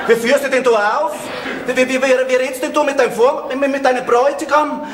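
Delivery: scold, tripping over the first words; affronted fiancé sputtering; indignant scolding. Acted. Scolds fiancée for her outburst.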